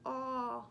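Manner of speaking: "aw" sounded out as in call; teacher demonstrating the vowel "aw". Shown as a demonstration. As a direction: say "aw" as the open vowel of mall. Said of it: "Makes that aw".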